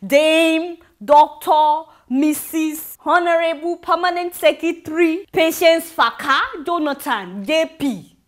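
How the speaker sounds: slow, loud pompous roll call of titles; mock-grand title reading. Real, not acted. Mocking the First Lady's titles, reading them out slowly and pompously. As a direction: savour each title with mock ceremony.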